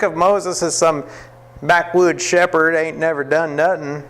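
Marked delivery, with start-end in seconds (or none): 1.6-4.0 hint of a southern accent, mocking a stereotype. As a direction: tease it in a lightly put-on southern accent. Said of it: "someone's got a southern accent".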